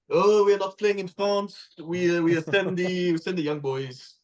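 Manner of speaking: slow, hammed-up French accent, mimicking a French rugby coach; mock French accent. Podcaster mocking France's young touring squad, in a slow jokey French accent. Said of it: "That is my best French accent".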